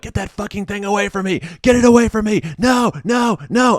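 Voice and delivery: imitated frantic high screaming; hysterical screaming. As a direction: shriek it like a terrified patient. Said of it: "the patient's just screaming".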